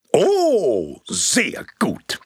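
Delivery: pleased. Acted. Projectionist pleased.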